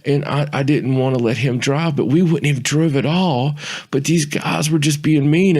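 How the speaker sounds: talking the cop out of an arrest with fake tears; fake tearful plea. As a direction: keep up the high, pleading crybaby voice. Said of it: "I change my voice pattern".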